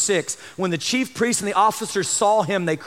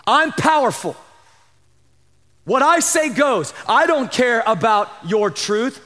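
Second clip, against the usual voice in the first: emphatic, higher-pitched boast; acted arrogance; 3 semitones higher than usual. Preacher as Pilate boasting of power, mildly imperious. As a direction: play a ruler asserting his power.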